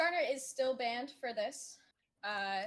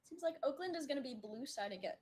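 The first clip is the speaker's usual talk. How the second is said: talking through hiccups; 3 semitones higher than usual. Real, not acted. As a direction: hiccup between words. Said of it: "I have the hiccups".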